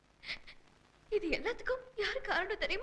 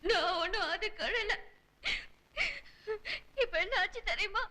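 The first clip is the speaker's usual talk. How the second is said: crying. Acted. Wife answers husband's teasing while still crying. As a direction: sob out the denial. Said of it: "ஏன் அழற?".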